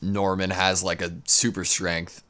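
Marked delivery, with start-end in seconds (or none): 2.3-2.3 excited laughing. Real, not acted. Laughing at a fight scene.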